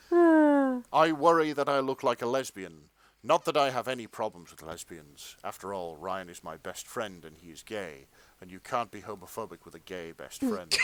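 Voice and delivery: low, hushed fan fiction reading; erotica-style narration. Acted. Narrator describes her own body to listeners, low dramatic narration. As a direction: intone it like earnest romantic prose.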